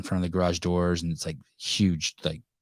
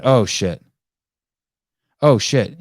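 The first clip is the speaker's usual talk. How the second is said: imitating Lucas; 4 semitones higher, 9 dB louder, slower than usual. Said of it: "he told me last night".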